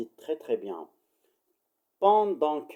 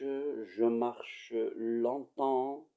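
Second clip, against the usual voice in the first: very slow, stretched-out words; slow storytelling, each word lingering; drawn-out walking; 3 dB quieter, much slower than usual. Acted. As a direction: drag the words out like the long walk. Acting out a long weary walk.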